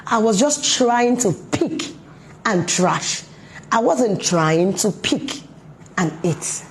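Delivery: put-on hurt toddler. Scolded toddler explaining to parent, slow hurt pleading. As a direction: plead like a small child who was misunderstood. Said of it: "The child felt terrible".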